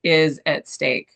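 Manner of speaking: lightly voiced whiny nasal skeptic; a hint of an obnoxious nasal heckler. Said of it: "like, kind of obnoxious, like, nasal voice going".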